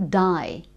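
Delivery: "die" as the Australian way of saying day; "die" with a broad I vowel. Shown as a demonstration. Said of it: "rather than day".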